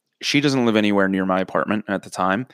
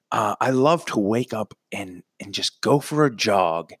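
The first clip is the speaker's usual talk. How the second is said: fake casual lie. Making up a lie.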